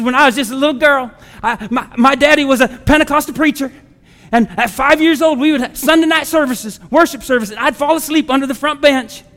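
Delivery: a hint of an enthusiastic Carolina woman's accent; Dory. Preacher imitates a church member recalling childhood, light Southern accent. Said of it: "kind of got a southern accent".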